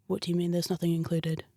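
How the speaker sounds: low, quiet mock menace; understated low intimidation, retold; menacing. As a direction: imitate a man leaning in with a threat. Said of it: "like, menacing stare".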